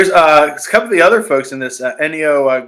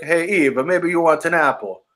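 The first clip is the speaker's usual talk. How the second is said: snake voice. Retold or imitated. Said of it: "That's what he sounds like".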